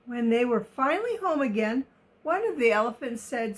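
put-on reading a picture book to children; story narration. A narrator's reading. Reader telling of the elephants in the open, expressive story narration. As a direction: tell it expressively, every word carefully placed.

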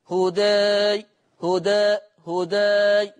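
هداي with the final aa tilted towards e; held, level هداي, vowel between a and e; taqlil on هداي. Shown as a demonstration. Teacher showing students the taqlil, هداي with aa leaning to e. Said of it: "شوف التقليل".

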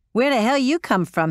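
rough attempt at a Cajun accent; a Cajun crew chief, badly imitated. Cajun crew chief greeting the rescued pilot, Cajun accent. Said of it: "Sorry if I butchered the accent".

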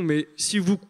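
calm and composed. Retold or imitated. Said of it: "très posément".

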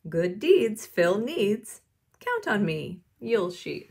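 picture-book read-aloud. A narrator's reading. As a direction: read a story to a young class. Reads picture book to children.

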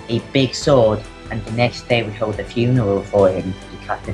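lightly voiced blacksmith's wife writing her diary; diary reading voice. Reads diary as Miss Blacksmith.

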